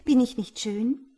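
loud, high, indignant self-praise; proud and affronted; defensive. A narrator's reading. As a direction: demand to be admired. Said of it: "verteidigte sich Rias Schutzgeist".

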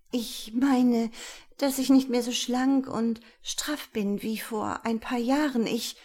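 high, strained, embarrassed admission; ashamed confession. A narrator's reading. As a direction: confess it with growing shame. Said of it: "plötzlich schämte sie sich". (beschämtes Geständnis)

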